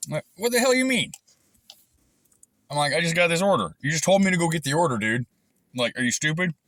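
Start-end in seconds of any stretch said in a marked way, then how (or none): 0.4-1.1 very high, louder incredulous yelp; outraged disbelief. Retold or imitated. Retold outraged reply to deputy. 2.9-6.6 higher, louder, fast frustrated retort; exasperated retort. Retold or imitated. Retold angry reply to deputy.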